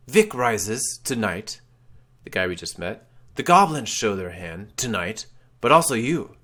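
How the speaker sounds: a light wraith voice, measured. Acted. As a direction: keep the spectral pronouncement going. Ghostly man continues.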